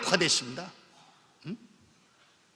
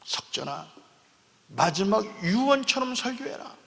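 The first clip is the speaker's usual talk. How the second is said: soft, near tears, quieter; a hushed, tearful echo of the command; tearful repeat; 5 dB quieter than usual. Real, not acted. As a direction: let the tears come up as you repeat it. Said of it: "눈물이 나요".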